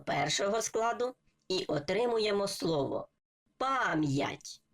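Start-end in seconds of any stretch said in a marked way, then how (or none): 3.6-4.6 пам'ять with a clear y-glide after м; carefully sounded "pam-yat" for пам'ять; with apostrophe. Shown as a demonstration. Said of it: "читаємо відразу разом з апострофом".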